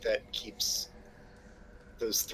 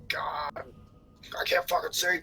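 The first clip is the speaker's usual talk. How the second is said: frustrated shout; 6 semitones higher, 3 dB louder, slower than usual. Acted. Frustrated character in the dark.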